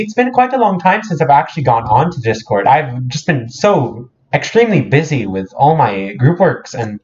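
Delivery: lightly mock-British chatter; a touch of hammed-up British; put-on British accent. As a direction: greet the group in affected British. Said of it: "start talking with an accent".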